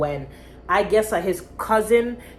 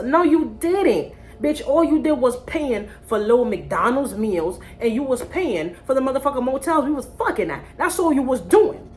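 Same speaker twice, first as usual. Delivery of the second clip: getting mad; 5 semitones higher than usual. Real, not acted. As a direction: tear into him, really annoyed. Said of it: "I'm getting mad".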